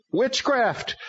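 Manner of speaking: high, strange demon voice. A narrator's reading. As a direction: announce the name like a demon. Demon names itself.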